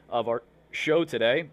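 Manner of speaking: talking through hiccups. Real, not acted. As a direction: hiccup breaks the words. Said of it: "Excuse me, I got the hiccups".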